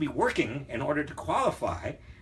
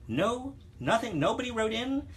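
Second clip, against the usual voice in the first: high-pitched questioning disbelief; taken aback, voice pitched well up; incredulous; 8 semitones higher than usual. Real, not acted. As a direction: ask in rising, higher-pitched disbelief. Finds nobody did the homework.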